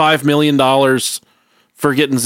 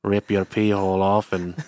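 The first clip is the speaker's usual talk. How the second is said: low, soft creepy monster voice; Slender Man; 4 semitones lower, 5 dB quieter than usual. Acted. Podcaster playing the monster describing its attack, low creepy voice. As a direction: menace quietly in a lowered creature voice. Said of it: "Slender Man probably talks like this".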